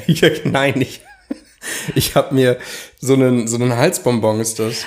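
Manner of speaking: talking around a lozenge; mouth full. Real, not acted. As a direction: mouth full with a cough drop. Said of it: "hast du dir gerade eine Multivitamintablette?".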